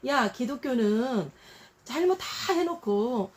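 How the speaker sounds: mock the believers. Unbeliever mocking Christians, sneering. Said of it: "이런 말 많이 들었어요".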